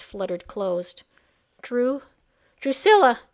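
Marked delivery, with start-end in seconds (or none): 1.6-3.2 calling out. Acted. Calling to the dying girl.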